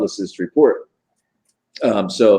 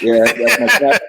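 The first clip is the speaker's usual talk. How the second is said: laughing; 2 semitones higher, 5 dB louder, slower than usual. Real, not acted. Laughing after impression.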